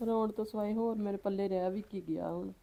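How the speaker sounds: soft, tearful despair; crying. Acted. Woman with nothing left but tears, crying. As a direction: lament it weakly through tears. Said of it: "ਚੱਲ ਹੁਣ ਰੋ ਨਾ".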